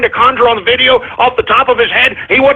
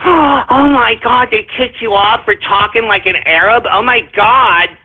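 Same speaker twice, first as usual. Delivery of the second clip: mock outraged social media; slower than usual. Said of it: "everybody's first reaction on social media was like".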